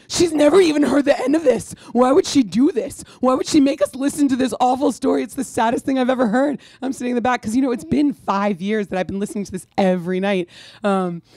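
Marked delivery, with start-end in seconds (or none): 0.1-6.6 high, loud tearful complaint; mock sister wailing. Sister complains to mom about the sad story, mock wail. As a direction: play the weeping sister, hammed up. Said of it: "And my sister said".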